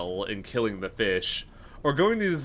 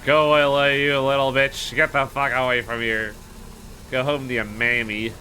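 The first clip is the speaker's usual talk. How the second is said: angry yelling; 3 dB louder than usual. Real, not acted. Yelling at the game fish.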